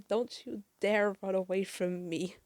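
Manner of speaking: half-shouted angry warning, acted out; Surge yelling.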